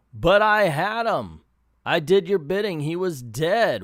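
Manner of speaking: retold protest yell. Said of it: "he's yelling".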